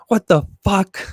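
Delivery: sudden high, outraged yelp; mock outrage. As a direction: blurt it out in mock disbelief. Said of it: "I'd be like".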